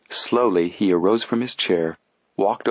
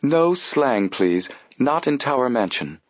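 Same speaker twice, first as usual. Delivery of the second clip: severe; 5 semitones higher, slower than usual. Acted.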